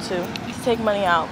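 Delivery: usual speaking voice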